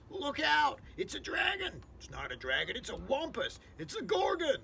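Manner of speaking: high, frantic alarmed cries; a jumble of panicked high shouts; panicked shouting. Acted. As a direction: yell each monster name in panic. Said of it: "all started shouting at once".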